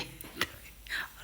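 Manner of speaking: a soft breathy giggle; quiet real laugh escaping mid-makeup; हल्की हंसी. Real, not acted. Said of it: "मुझे बहुत हंसी आ रही है". (दबी सी हल्की हंसी)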